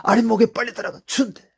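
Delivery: loud, high loving call; God as a parent. Acted. God speaking like a parent to the returning sinner, loud and high. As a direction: call him home with loud love.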